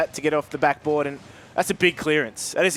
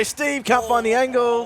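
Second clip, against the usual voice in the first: higher, drawn-out excited call; excited play-by-play; 6 semitones higher than usual. Real, not acted. Commentator calling Steve's chance at goal, excited. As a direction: stretch the call as the chance builds.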